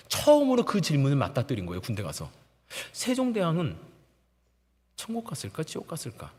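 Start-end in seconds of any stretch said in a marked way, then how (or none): 2.9-6.3 very soft, pondering question; softly wondering to himself; hushed wondering. Retold or imitated. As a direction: voice the private doubt quietly. Inner question dawning on him.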